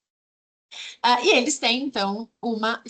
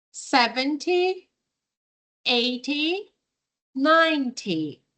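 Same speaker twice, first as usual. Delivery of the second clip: twenty, thirty, forty with the first syllable strongest; stress on first syllable; slower than usual. Shown as a demonstration. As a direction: open each number strongly and let the ty fall away. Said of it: "a primeira parte da palavra é a mais forte".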